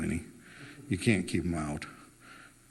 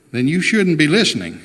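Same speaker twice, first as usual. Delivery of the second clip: louder, laughing through the words; laughing retort; 4 semitones higher, 6 dB louder than usual. Acted. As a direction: toss it back with a laugh. Teasing retort in argument.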